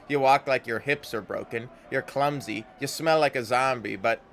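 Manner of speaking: blunt affection, ending on a shout; gruff confession. Acted. Anna confesses feelings.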